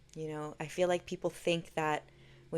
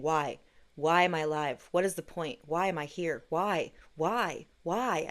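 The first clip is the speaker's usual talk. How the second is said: retold pleading cry; 6 dB louder than usual. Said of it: "I just kept saying".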